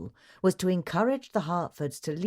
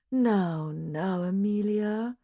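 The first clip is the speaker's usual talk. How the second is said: soothing; 4 semitones higher, much slower than usual. A narrator's reading. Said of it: "said Missus Devine soothingly".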